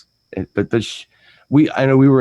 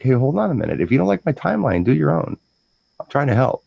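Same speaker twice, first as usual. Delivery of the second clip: higher-pitched, indignant comeback; defensive retort; 4 semitones higher than usual. Retold or imitated. Answering her mom's objection to his timeline, defensive retort. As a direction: push back, mildly exasperated. Retelling retort to bride's mother.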